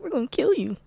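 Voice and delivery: high, loud cartoon threat; menacing villain. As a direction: play the hammy killer. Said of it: "they're like".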